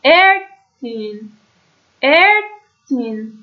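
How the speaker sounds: «ارتین» very slowly, opening on a long "e"; umlaut as "e". Shown as a demonstration. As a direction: draw out «ارتین» syllable by syllable, starting with "e". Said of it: "به جاش ا بذارین". («ارتین» کشیده و آهسته با صدای اِ)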